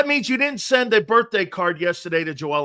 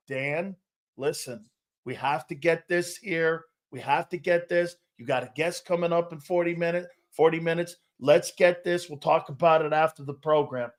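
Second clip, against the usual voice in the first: producer pleading. Retold or imitated. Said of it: "here's the producer on the other side".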